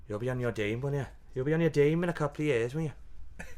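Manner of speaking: light, badly done Welsh accent; a hint of Welsh in the teasing; terrible Welsh accent. Welsh comic teasing him about becoming a Dame, bad Welsh accent. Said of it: "it's a terrible Welsh accent there".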